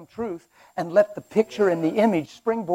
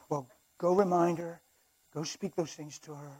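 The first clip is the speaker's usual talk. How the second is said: Satan; 10 dB quieter than usual. Acted. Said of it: "I have Satan over here like this".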